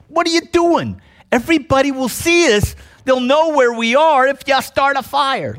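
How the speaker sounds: high, urgent alarmed cowboy hiss-free shout; cowboy hero scolding a careless campfire-builder; John Wayne. Retold or imitated. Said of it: "John Wayne runs over, kicks the fire out".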